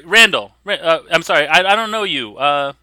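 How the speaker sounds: high, lightly voiced shop owner; shopkeeper character. Shop owner asks a scout his name, shopkeeper voice.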